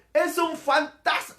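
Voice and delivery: mock cry of alarm, pitched high; drawn-out scared exclamation, half acted; frightened cry. Preacher voicing disciples who see a ghost, mock frightened cry. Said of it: "Y gritaron".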